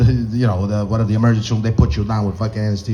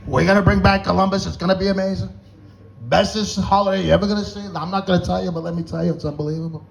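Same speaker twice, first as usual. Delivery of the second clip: higher-pitched boastful salesman cadence; Trump; 5 semitones higher than usual. Acted. President promising Italians Columbus Day, as Trump. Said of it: "Trump's out of his mind".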